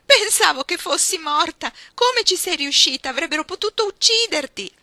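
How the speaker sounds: loud, high tearful cry after a fright; shrill weeping shout; crying outburst. Acted. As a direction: burst out sobbing with relief and terror. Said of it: "scoppiò in lacrime".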